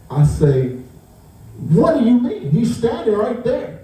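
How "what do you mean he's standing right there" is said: raised, disbelieving question with a laugh; can't believe she missed him standing there; incredulous. Retold or imitated. Retelling the clerk exchange, raised disbelieving voice.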